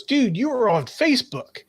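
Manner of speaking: high-pitched imitation of a boss; excited boss. Retelling boss spotting him on Facebook, excited imitation. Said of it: "he came up to me and he goes".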